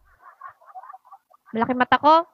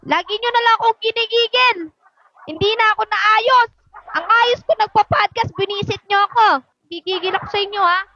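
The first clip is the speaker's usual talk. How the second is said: exasperated scolding; 5 semitones higher than usual. Real, not acted. Scolding family during podcast.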